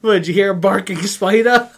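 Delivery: loud, high, through laughter; imitated laughing reply. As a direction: crack up while making the silly excuse. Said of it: "He starts laughing".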